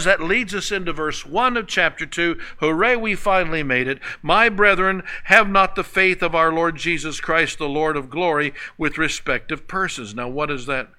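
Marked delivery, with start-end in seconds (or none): 4.2-10.1 scripture read out with a lift. Acted. Preacher reading the verse to the congregation, solemn. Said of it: "he says".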